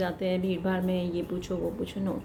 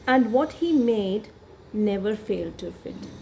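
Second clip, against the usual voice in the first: slow, careful reading aloud of the text; story reading; slower than usual. Shown as a demonstration. Teacher reading the story to students. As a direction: read the passage slowly to the class.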